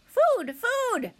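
high-pitched hungry peep; high, insistent hatchling cry; tiny gosling voice. A narrator's reading. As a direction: cry out like a baby bird demanding food. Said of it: "The tiny voice".

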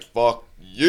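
playful, long stretched-out "you"; silly heckle. Retold or imitated. Friend heckling the band's singer mid-song, silly jeer. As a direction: hold the last word like a goofy jeer. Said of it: "like, fucking just silly".

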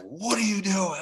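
sharp high mock yell at the young catcher; retold scream. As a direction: manager barking at his own player, half-acted. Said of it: "screaming at me".

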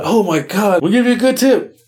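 gushing passengers. Retold or imitated. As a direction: play the girls over-thanking the driver. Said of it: "They're like".

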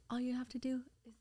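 breathy unvoiced whisper of his line; imitating a celebrity's hushed advice; whispered quote. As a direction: hush it like a secret tip. Retelling Shaquille's words.

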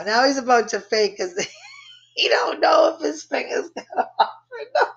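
words breaking into real laughter, high at the end; laughing through it. Real, not acted. Teller laughing at her own story, breaking into laughter. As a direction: crack up as you finish the line. Teller cracks up mid-sentence.

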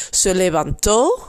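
levantó with the last syllable, tó, stressed. Shown as a demonstration. Teacher showing Dutch listeners where the stress falls, stressing the last syllable. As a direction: lean on the final O of levantó. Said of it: "met een accent echt op de O".

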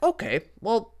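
high, slow sarcastic repeat. Retold or imitated. Scoffing at the exam's study hours, high and sarcastic. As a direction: mock-cheerfully restate the absurd number. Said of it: "So I was like".

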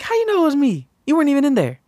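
high, loud exasperated challenge; loud protest. Retold or imitated. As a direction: defend yourself indignantly. Retold protest.

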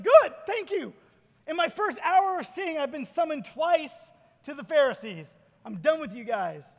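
loud, high, punchy send-off; gladly wash your hands of them, playing it up; acted happy relief. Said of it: "the guy was probably happy".

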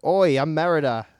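hammed-up Scottish accent. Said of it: "let me do a Scottish accent".

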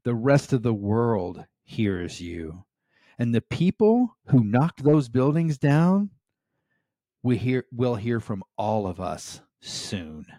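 rally the crowd with conviction; resolute rallying call. Retold or imitated. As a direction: president rallying rescue workers through a megaphone, loud and firm. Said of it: "the president with a megaphone".

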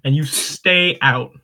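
mock scolding. Mock eviction of Southern character.

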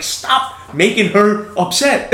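high-pitched, slow mock pleading; retold exasperated plea. Dad pleading with daughter to stop upsetting the kid, high mock exasperation.

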